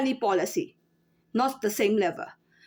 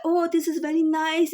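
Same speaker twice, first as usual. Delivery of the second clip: mock customer praise; 3 semitones higher than usual. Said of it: "they will say, like".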